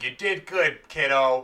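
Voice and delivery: lightly voiced patronizing partner; Bobby Roode. Partner humouring his eager sidekick, lightly imitated praise. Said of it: "And Bobby's like".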